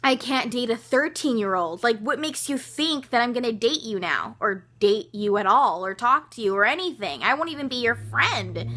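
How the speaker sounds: mildly indignant retold telling-off; retold anger. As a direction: reenact scolding someone, only a little heated. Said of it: "I was completely over the moon pissed".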